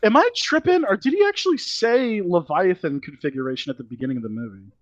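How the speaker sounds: high pitched disbelief; incredulous. Real, not acted. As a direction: ask it again, suddenly up high in disbelief. Repeats question, much higher.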